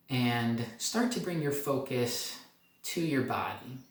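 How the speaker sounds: slow, gentle guiding voice; guided meditation. Acted. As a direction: ease them into the present, unhurried. Opening guided body scan.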